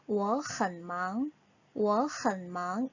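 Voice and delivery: slow model reading, 很 rising as second tone before 忙; tone sandhi demo. Shown as a demonstration. Teacher models the tone change, slow reading with rising 很. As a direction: say 很 with a rising tone, leading into 忙. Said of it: "삼성으로 봐서 이성으로".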